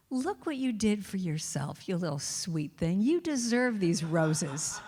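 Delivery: slow, gentle self-praise; slow tender pep talk to herself. Retold or imitated. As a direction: soothe yourself like a child, slowly. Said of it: "totally reframe it and go".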